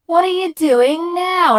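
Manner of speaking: very high, loud, drawn-out demand; looming angry mum. Retold or imitated. Mum catching Michael fake-climbing stairs, outraged yell. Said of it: "standing over me going".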